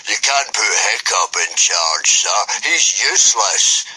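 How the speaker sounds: lightly voiced protesting boy, slowing at the end; boy protesting to the instructor; whiny boy. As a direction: complain to the teacher.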